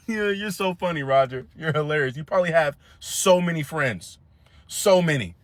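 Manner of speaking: dry sarcasm over a laugh; fake-praise the annoying kid; sarcastic. Sarcastic to Roger.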